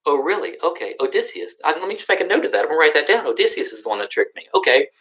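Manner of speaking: high, mock-sweet sarcasm; sarcastic cyclops. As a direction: pretend to take polite notes while plotting revenge. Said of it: "And Cyclops goes".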